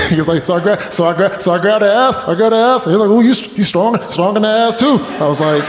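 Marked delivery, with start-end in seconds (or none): 0.4-2.8 high, stammering tearful confession; imitating a friend blubbering his story; mock crying. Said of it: "really crying right now?". 3.1-5.0 high, stammering tearful confession; imitating a friend blubbering his story; mock crying. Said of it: "really crying right now?".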